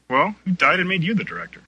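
sarcastic challenge. A narrator's reading. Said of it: "Allie asked".

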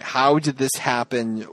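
mock puzzled. A hint of puzzled Hillary, repeating it slowly. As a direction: ask it again, lost. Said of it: "Hillary is standing there going".

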